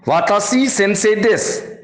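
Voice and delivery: वाताशी सेंसे देस as the faulty example without वा; wrong sentence demo. Shown as a demonstration. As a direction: say it plainly as the mistake. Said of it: "यह वाक्य गलत होगा".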